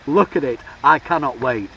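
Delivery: loud, excited exclamation; hyped. Real, not acted. Vlogger tells viewers they cannot wait, hyped. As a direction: punch it out loud with real excitement. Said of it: "let's not get too hyped".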